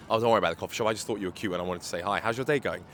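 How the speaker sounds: low, easy and unhurried, then quick on the cute part; smooth. Shown as a demonstration. Pickup coach demonstrating a smooth line to a girl, casual and easy. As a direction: slide into it like it's no big deal. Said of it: "See how smooth that is".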